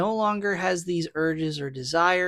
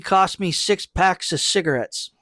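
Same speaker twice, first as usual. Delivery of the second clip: louder put-on tough-guy voice for the quote; mocking Cyrus; 2 semitones higher, 4 dB louder than usual. Co-host voicing Cyrus giving the bunny, hammed-up louder put-on voice. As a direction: ham up Cyrus handing over the bunny. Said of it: "he's like".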